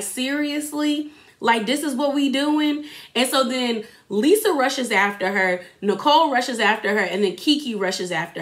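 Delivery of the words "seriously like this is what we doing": slow, higher, fed-up disbelief; incredulous. Retold or imitated. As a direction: drag out the seriously in disbelief. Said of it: "Russell was just looking at her like".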